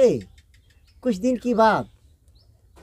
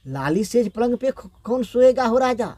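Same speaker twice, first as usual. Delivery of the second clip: wailing lament; 4 semitones higher than usual. Acted. Queen weeps to her late king, gentle lamenting wail. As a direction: lament like a grieving widow, understated. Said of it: "रोते रोते कहता है".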